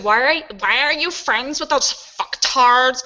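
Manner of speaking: put-on slow, airy valley girl sneer; lightly voiced sorority girl. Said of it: "I'm making her sound like a sorority girl".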